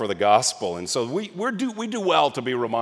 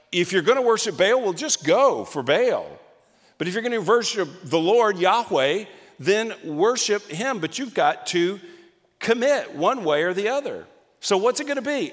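urgent challenge; 6 semitones higher than usual. Acted. Paraphrasing Elijah's challenge.

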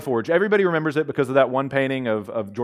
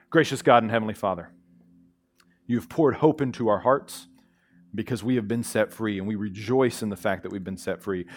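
closing prayer; 3 semitones lower than usual. Acted. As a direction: pray gently to the Father.

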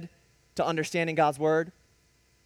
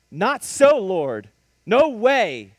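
louder, indignant cry of refusal; acted protest; 6 dB louder, much slower than usual. Peter protesting loudly to Jesus about suffering. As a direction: push back hard like a shocked disciple.

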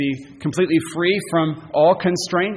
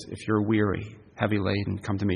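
lower, softer quoted invitation; gentle invitation; 4 semitones lower, 5 dB quieter than usual. Retold or imitated. Preacher quotes Jesus to the weary, gently. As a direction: invite the weary in a low, soft voice.

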